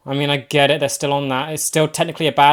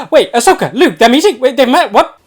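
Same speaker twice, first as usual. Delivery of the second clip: excited gasp; 9 semitones higher, 10 dB louder than usual. Real, not acted. Gasping excitement at a reveal.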